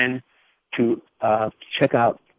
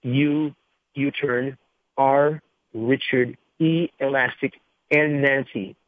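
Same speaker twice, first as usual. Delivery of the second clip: slow spelling; slower than usual. Real, not acted. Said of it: "I'll spell it out slowly".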